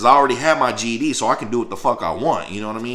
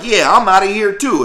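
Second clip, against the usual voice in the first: mild retold loud declaration; 8 semitones higher, 6 dB louder than usual. Declaring he quits too.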